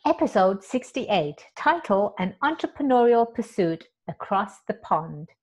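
steady announcer read of "Episode sixty-eight, title, An Entrepreneurial Pursuit Across the Pond"; clean retake. Shown as a demonstration. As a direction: read the title smoothly like a show intro. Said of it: "Let me say that again".

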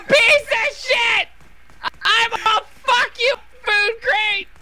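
high-pitched, drawn-out cursing; angry cursing. Real, not acted. Player cursing a runaway food crate, angry and high-pitched.

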